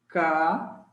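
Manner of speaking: caíste split apart, each syllable held. Shown as a demonstration. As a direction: sound out Ca-is-te slowly with pauses. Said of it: "Separei a sílaba".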